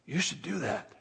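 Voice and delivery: very soft inner nudge; hushed little suggestion; Holy Spirit's prompting. Acted. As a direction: prompt them quietly, almost under your voice. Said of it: "the Holy Spirit is in there going".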